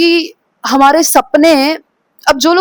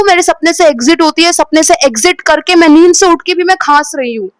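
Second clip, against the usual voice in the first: ordinary delivery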